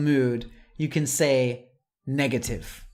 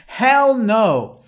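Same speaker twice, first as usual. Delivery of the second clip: loud and higher, HELL punched; emphatic hell no; 7 semitones higher, 8 dB louder than usual. Shown as a demonstration. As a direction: throw it out with a grin. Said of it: "One more emphatic one".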